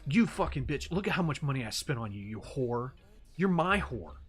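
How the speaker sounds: mocking the fan turning on her; mock furious simp. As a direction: ham up his entitled outburst. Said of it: "it's like".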